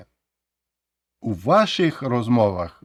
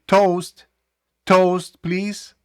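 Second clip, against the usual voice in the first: mock party request; 6 semitones higher, much slower than usual. Guests at a party asking for a toast, called out brightly. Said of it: "вони вас попросять сказати".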